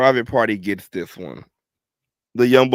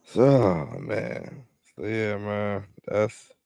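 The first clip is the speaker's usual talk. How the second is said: robotic voice; much slower than usual. Real, not acted. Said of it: "You sound robotic".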